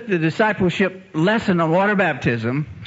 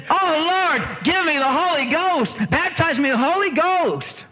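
high, ringing plea for the spirit; fervent plea; 14 semitones higher than usual. Retold or imitated. Christy pleading to be baptized, high and fervent. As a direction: cry out for the Holy Ghost. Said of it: "She says".

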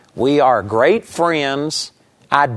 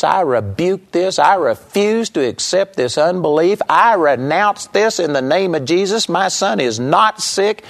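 forceful rebuke; 5 semitones higher than usual. Retold or imitated. Rebuking the devil in mother's face.

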